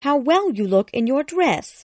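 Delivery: high, loud show of concern; trying to sound caring. A narrator's reading. Lady greets her rich relation, trying to sound caring. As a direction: gush with put-on care. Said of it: "trying to sound caring".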